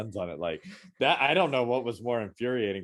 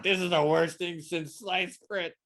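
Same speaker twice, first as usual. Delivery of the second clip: sarcastic; 6 semitones higher, slower than usual. Retold or imitated. Sarcastic put-down of friend's movie.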